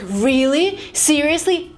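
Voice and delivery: mildly incredulous, rising questions; astonished questioning. Acted. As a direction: ask as if seeking confirmation. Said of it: "the person would ask me".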